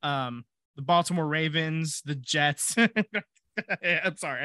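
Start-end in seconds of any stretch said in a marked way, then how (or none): 2.0-4.4 cracking up after the team name; stifled laugh breaking out; failing to hold back laughter. Real, not acted. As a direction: try not to laugh, then break into an apology. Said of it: "tried to say it without laughing".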